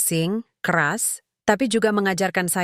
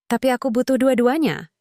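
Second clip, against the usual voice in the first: put-on child's anguished cry; 6 semitones higher than usual. A narrator's reading. Daughter begging her father not to leave, crying out. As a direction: wail it out to keep her father.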